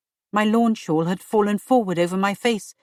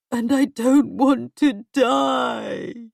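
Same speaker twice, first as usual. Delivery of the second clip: desperate shout; 2 semitones higher, much slower than usual. Acted. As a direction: cry it out against death. King cries out in fear.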